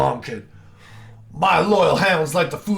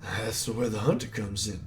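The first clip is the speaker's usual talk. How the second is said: lightly voiced villain boss, mocking; a hint of a gloating hunter villain; 2 semitones lower than usual. Villain taunting the hero, mild mock menace.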